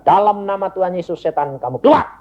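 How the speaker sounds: quick, rising rebuke; retold exorcism command. Father casting out two demons, urgent command. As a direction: rattle out the command, pushing to the last word.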